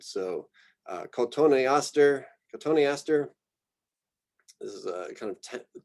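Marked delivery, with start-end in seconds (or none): 1.1-2.2 cotoneaster as co-TONE-ee-AS-ter, five syllables; every vowel its syllable. Shown as a demonstration. Lecturer modelling vowel sounds, cotoneaster in five syllables. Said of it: "give a syllable to each new vowel sound". 2.5-3.3 cotoneaster as co-TONE-ee-ASS-ter, flat A in AS; every vowel its syllable. Shown as a demonstration. Lecturer repeating for students, cotoneaster with every vowel sounded. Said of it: "give a syllable to each new vowel sound".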